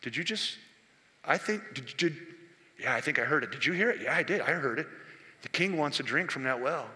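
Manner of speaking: conspiratorial murmuring; two men plotting quietly; soldiers conspiring. Acted. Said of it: "they said".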